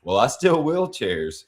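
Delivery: mock-excited druggie rambling; excited quote. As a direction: pitch it up and rush to the punchline. Quoting Daryl excitedly.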